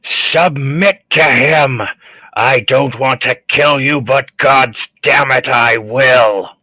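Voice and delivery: desperate battle cry, slow and heavy; yelling. Acted. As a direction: shout them down, pleading and threatening. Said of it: "I'll yell out".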